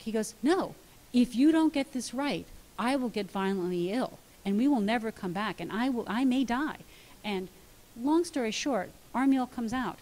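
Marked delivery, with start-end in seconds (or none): 0.4-6.8 dramatic son. Retold or imitated. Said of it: "obviously being dramatic sometimes".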